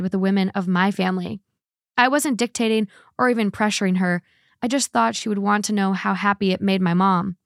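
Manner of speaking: measured, even first-person narration; reading a post aloud. A narrator's reading. Host reads listeners a man's post about his wife's birth plans, measured narration.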